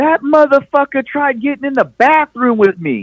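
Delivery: shrill, high-pitched yelling. Retelling a gas station scene, a woman at the door: imitating a woman yelling. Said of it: "she's yelling at me".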